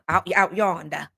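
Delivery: slow Southern country drawl; imitated Southern folk. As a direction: stretch it out in a country accent. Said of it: "as y'all say".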